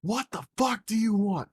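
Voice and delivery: high-pitched mock irritation; imitated exasperated mom. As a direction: play an annoyed mom picking up the phone. Voicing mom answering the phone.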